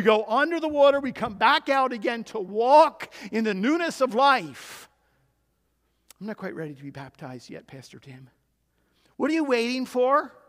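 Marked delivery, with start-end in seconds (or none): 6.2-8.3 reluctant congregant. Retold or imitated. Congregant voiced making excuses.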